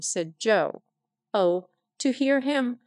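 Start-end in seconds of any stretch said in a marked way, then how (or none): 1.3-2.8 raised, higher cry; mild outraged cry; cried out. Acted. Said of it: "cried my sister".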